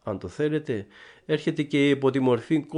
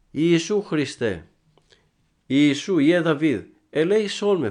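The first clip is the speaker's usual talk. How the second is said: high, loud, pleading call for mercy; the blind man calls out loudly for mercy; blind man's cry; 5 semitones higher, 4 dB louder than usual. Retold or imitated. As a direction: cry out to Jesus from the roadside. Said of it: "φώναζε ο τυφλός".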